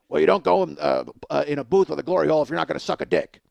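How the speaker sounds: gruff, grouchy scolding; Oscar the Grouch. Acted. Stranger scolding him through the wall, grouchy. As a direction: grumble it like a cranky puppet. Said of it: "He sounds like Oscar the Grouch".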